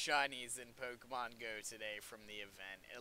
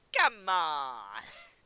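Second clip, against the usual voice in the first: mock stereotypical Brooklyn Italian voice, higher and louder; 4 semitones higher, 10 dB louder than usual. Waiting on a game reset, begging it: put-on stereotypical Brooklyn Italian accent. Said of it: "I don't know what voice that is".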